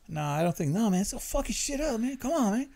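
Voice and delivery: put-on high-pitched Latino homeboy accent; agitated mock Latino voice; Latino payback voice. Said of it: "You got the Latino".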